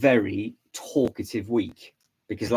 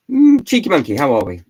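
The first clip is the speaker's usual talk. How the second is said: playful greeting; 5 semitones higher, 11 dB louder than usual. Real, not acted. Greeting a chat viewer playfully.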